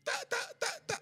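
high-pitched, halting syllables; hammed-up, squeaky ta, ta, ta; a beginner's first words of tongues, mimicked high; imitating his halting tongues. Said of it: "the only thing I was doing was ta".

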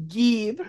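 "Gib" with an odd vowel; Canadian-sounding "Gib". Retold or imitated. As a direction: mimic the actress's strange "Gib". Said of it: "Why are we Canadian?".

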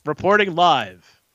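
slow, measured news reporter read; a touch of live TV correspondent. Pretend. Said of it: "I just wanted to put on my reporter voice".

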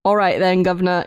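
a hint of a cockney British "all right then, Governor"; British accent. Host teasingly bids farewell in a light British accent. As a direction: tip the hat British, lightly. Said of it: "I'm gonna stop the accent".

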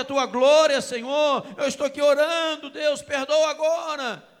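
loud, urgent plea voiced for Moses; full-force preaching. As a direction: hammer each argument home to God. (pregação inflamada, suplicando em voz alta)

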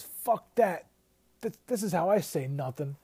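hammed-up mobster comeback; mock tough snap. Paulie answering Silvio before the beating, mock loud. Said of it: "Paulie says".

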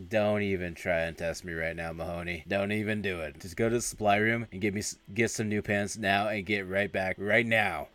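contained, no-nonsense order; retold stern warning. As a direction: lay down the law without raising your voice. Retold instructor warns a prankster.

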